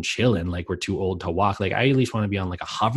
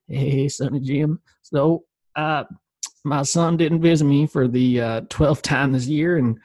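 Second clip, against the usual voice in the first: put-on slightly raised old-timer voice with a Tennessee accent; elderly Tennessee accent; 4 semitones higher than usual. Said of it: "old me suddenly had, like, a, a Tennessee accent".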